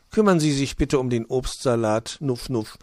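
lightly voiced hedgehog mother, sniffing. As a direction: briskly hand out a chore. Frau Igel instructs magpie.

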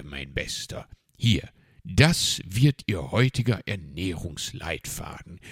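lightly voiced stern fox, emphatic; strict Herr Fuchs. Fox setting out Uncle Uhu's diet plan, mildly stern and emphatic. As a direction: lay down the diet rules with punched words.

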